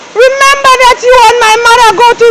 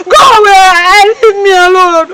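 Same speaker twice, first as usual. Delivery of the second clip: tearful outburst. Acted. Maid crying, sending away.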